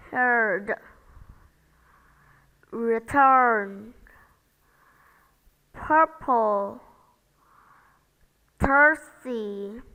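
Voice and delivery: slow model words with long er, R silent. Shown as a demonstration. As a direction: say each word clearly for students to repeat. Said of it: "listen and repeat after me".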